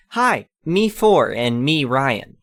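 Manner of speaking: put-on excited child. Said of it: "exclaims an excited".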